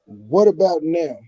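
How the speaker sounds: muffled, drowned-out audio; underwater. Real, not acted. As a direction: sounds like he's drowning. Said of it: "you sound like you drowning again".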